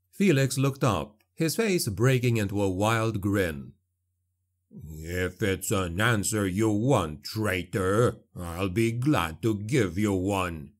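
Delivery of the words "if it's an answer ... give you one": lower, slow dwarf slayer challenge; gruff dwarf voice. A narrator's reading. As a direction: growl it down from the ledge. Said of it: "Gotrek shouted".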